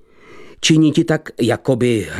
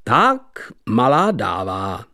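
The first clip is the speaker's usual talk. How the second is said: brisk hearty shout; dashing call; slower than usual. Acted. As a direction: sing it out like a dashing card player. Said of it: "zakřikl junáckým hlasem".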